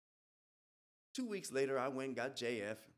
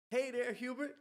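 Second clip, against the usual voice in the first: high, loud call to comrades; raised, carrying shout in two bursts; yelling out; 11 semitones higher, 6 dB louder than usual. Acted. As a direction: holler to get their attention. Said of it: "So I yells to 'em".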